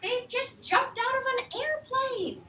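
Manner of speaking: excited aside. Acted. Teacher adds an excited aside.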